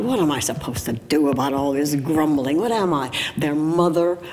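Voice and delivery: mildly petulant retold grumble; petulant outburst. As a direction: protest to God with a touch of exasperation. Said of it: "a really petulant outburst".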